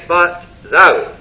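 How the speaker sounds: a contrasting, emphatic thou; stress on thou. Shown as a demonstration. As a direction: land the weight on thou. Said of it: "that little word again in the same place of emphasis".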